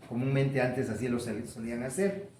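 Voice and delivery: ordinary delivery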